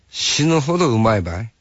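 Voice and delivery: Hakata dialect, rising on うまいばい; light Hakata offer, tune lifting at ばい; 博多弁で軽く誘うように; Hakata dialect question. Retold or imitated. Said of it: "博多弁になる".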